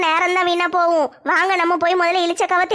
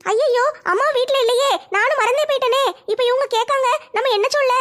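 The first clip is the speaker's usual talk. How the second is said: higher-pitched, worried fretting; flustered worry; 4 semitones higher than usual. Acted. Daughter caught out about her missing mother, flustered worry. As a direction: fret to yourself, pitch raised.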